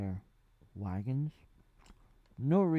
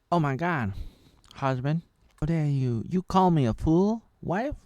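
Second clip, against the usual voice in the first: higher and much louder, hammed-up outrage; mock indignant wife; 6 semitones higher, 10 dB louder than usual. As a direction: snap back at a husband who insulted you. Wife and husband quarrel acted out.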